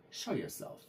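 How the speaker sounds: unvoiced whisper, barely there; whispered inner command; thought silently. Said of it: "I thought".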